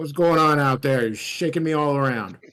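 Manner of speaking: gruff put-on voice, very loud. Voicing a character while the listeners stay quiet, in a gruff put-on voice. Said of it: "I'll just put on my my gruff pyre sounding voice".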